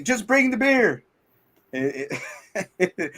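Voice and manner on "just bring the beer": high, slow pleading voice. Retold or imitated. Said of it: "guys, like".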